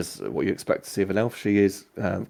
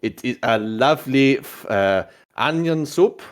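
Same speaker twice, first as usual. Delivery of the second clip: shaky attempt at a French accent; French cook presenting a dish, rising at the end; badly faked French; 4 semitones higher, 4 dB louder, slower than usual. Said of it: "I'm not very good at French".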